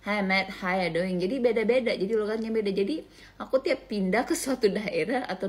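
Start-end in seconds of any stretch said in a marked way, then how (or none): 0.0-1.2 Australian English, words swilled round the mouth; lightly mimicked Australian mumble; mumbled Australian accent. Shown as a demonstration. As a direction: imitate a gargly Australian greeting. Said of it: "kayak kumur-kumur, agak kumur-kumur kalau ngomong".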